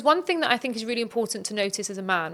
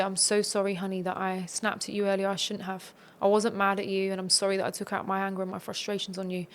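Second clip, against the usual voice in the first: softer, sincere sorry, honey; soft apology to wife; 5 dB quieter than usual. Shown as a demonstration. Husband apologizes to wife for snapping, soft and sincere. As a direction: say sorry gently, owning it.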